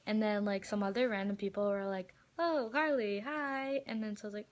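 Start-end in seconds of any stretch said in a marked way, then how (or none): 2.4-3.8 high, drawn-out hello; imitated fan greeting. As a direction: mimic random fans calling to a star. Imitates random fans greeting.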